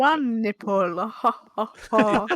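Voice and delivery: Count parody. Retold or imitated. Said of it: "the guy from Sesame Street".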